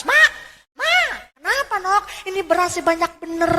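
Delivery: a high squeal on "Mak"; mock shriek. Daughter at the rice bin, high mock squeal. Ngejerit ngeliat tempat beras.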